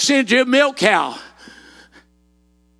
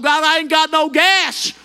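pleading with God; 3 semitones higher than usual. Retold or imitated. Preacher reenacting his plea to God, shouting. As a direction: mock-desperate shout. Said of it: "And I thought".

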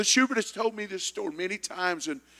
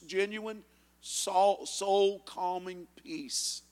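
soft and slow; 3 semitones higher, 7 dB quieter, much slower than usual. Acted. Preacher softens on longing.

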